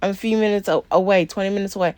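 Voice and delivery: high, quick, breezy put-on excuse; mock flustered client. Mocking the late client's excuses, high and quick. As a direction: lightly mimic the late client brushing it off. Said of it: "she's like".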